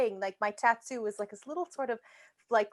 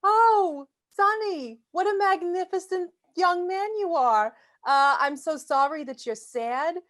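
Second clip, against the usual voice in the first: put-on doting old lady; 6 semitones higher than usual. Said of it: "I say".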